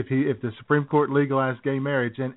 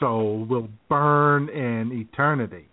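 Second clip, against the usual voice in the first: slow, lightly hammed-up sermon; mock preacher; slower than usual. Voicing the pastor to co-hosts, mock-preachy and slow. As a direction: draw out a mock pronouncement of doom.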